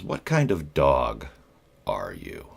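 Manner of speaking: slow, puzzled-sounding imitation of the boss; deadpan boss question. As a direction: drag the odd question out slowly. Boss's odd interview question.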